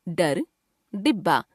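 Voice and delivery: "डर, डिब्बा" with a hard retroflex d; undotted ड sound. Shown as a demonstration. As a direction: start "डर" and "डिब्बा" on a firm curled-tongue stop. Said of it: "आइए इनका उच्चारण करके देखते हैं". ("डर, डिब्बा" में ड का स्पर्श उच्चारण)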